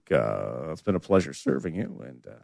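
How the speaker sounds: low, quiet captain over the intercom; pilot announcement. Acted. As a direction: sign off like an airline captain. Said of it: "This is your captain".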